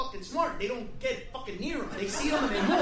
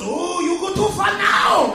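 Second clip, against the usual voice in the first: loud, slow, put-on scandalized shout; mock outraged voice; 4 semitones higher, 10 dB louder, slower than usual. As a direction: ham up the shocked heckler.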